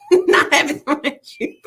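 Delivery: laughing through the joke; giggling while teasing. Real, not acted. Host teasing a viewer's pole comment, laughing. Joking about money thrown at pole.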